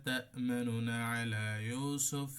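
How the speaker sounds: slow, drawn-out recited verse; slow Quran recitation. Shown as a demonstration. Teacher recites Surah Yusuf verse, slow chant. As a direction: chant the verse slowly and carefully. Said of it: "সূরা ইউসুফের এগারো নম্বর আয়াতে".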